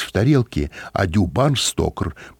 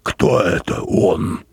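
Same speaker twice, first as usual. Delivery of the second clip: stern; much slower than usual. A narrator's reading. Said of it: "спросил он строго".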